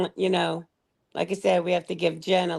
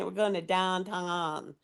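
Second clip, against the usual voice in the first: Pittsburgh accent; 4 dB quieter than usual. Shown as a demonstration. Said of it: "they say".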